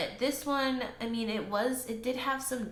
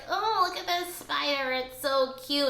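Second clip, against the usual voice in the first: higher mock gushing over a spider; mock cooing plant people; 4 semitones higher, 3 dB louder than usual. Imitating plant people who find spiders cute, higher mock cooing. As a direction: coo at it like it's adorable. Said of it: "people are always like".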